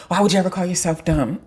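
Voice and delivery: incredulous question dissolving into laughter; incredulous laughing. Real, not acted. Teacher challenging students who call themselves dumb, laughing incredulously.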